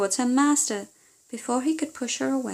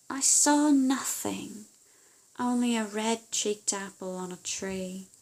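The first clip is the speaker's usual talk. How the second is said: daughter reporting. Acted.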